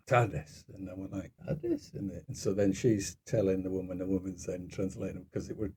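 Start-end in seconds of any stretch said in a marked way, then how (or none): 0.1-0.6 firm retold correction of "tardes"; mimicked correction. Mother-in-law corrects his Spanish greeting. 1.4-1.9 high-pitched, baffled "Tardes?"; puzzled echo. Retold or imitated. His puzzled echo of the correction.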